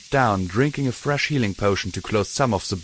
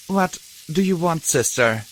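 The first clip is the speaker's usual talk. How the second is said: begging; 7 semitones higher than usual. A narrator's reading. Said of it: "Glory begged".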